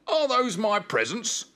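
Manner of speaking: high, eager puppy voice; excited. A narrator's reading. Spot spotting his presents, high and excited. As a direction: ask with high-pitched delight.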